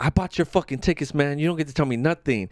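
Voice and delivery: mildly heated mock argument; drunk man arguing. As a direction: act out a drunk scolding his friend. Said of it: "the guy who was drunk, he's like".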